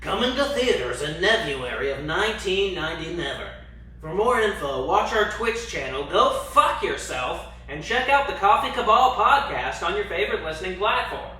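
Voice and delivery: dramatic trailer announcer; movie trailer voice. Pretend. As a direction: sell it like a blockbuster trailer. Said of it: "do I need to do this in the movie trailer voice?".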